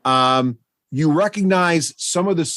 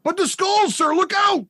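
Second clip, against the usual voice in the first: nervous goblin. Acted. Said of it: "He's like".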